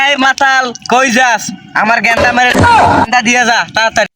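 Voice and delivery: angry shout. Acted. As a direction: yell to hurry him up. Deity yells demanding his frog.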